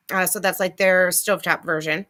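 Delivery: talking with fur in mouth. Real, not acted. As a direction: speak around fur caught on the tongue. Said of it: "I have fur in my mouth".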